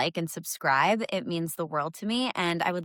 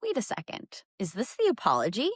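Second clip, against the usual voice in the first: hopeful surprise; 2 semitones higher than usual. Retold or imitated. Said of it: "and I was like".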